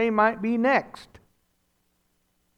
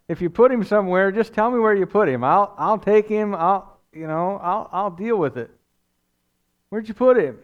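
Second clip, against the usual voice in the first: urgent pleading; 2 semitones higher, 3 dB louder than usual. Retold or imitated. Mary pleading with supposed groundskeeper.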